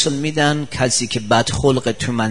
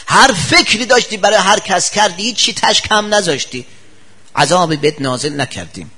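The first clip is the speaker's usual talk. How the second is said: preaching reproach; 5 semitones higher, 4 dB louder than usual. Acted.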